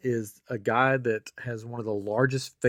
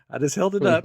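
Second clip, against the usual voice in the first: higher and louder, emphatic; emphatic retelling; 9 semitones higher, 8 dB louder than usual. Retold or imitated. New hire jumping the gate proudly shows his ID, emphatic. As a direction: insist proudly you held it up. Retold man holding up ID.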